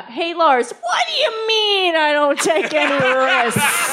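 mock furious message to Lars; indignant whine. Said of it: "went and typed in".

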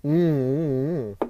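noisy coffee slurp; slurping hot coffee. Real, not acted. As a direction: slurp loudly from the mug. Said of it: "I'm gonna slurp again".

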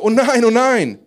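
high, loud, horrified outcry; horrified cry. A narrator's reading. Man crying out to Elisha over the lost axe head, horrified. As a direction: cry out in alarm, pitched well up. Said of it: "schrie er entsetzt".

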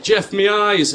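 high, mock-dramatic cry; acted TV catchphrase. Comedian quotes a classic Byker Grove line, high mock cry. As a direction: cry it out like a hammy soap line. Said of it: "classic lines like".

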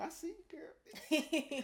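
high, slow drawn-out praise; impressed hype. Shown as a demonstration. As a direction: cheer her on, stretched out. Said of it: "That's different".

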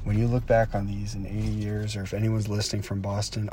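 hushed, reflective address to his future self; quiet. Real, not acted. Speaking quietly to Connor in eighty years, hushed. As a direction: say it softly to yourself, looking back.

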